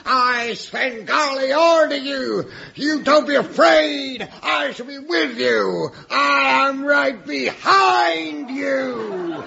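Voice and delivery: rally her like a coach; mock showbiz pep talk. Svengali pep talk before the show.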